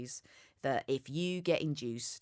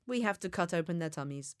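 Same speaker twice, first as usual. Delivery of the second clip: put-on Swedish accent; 4 semitones higher than usual. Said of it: "she was Swedish, I can't do Swedish accents".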